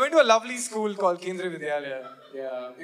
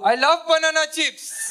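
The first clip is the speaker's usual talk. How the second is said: higher, louder caricature of a banana chip lover; mock the cliché with gusto; stereotype Mallu voice; 7 semitones higher, 4 dB louder than usual.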